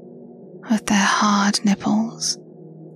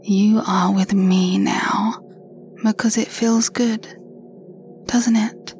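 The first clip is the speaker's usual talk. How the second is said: right in your ear. Acted. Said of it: "the sound of my voice in your ears".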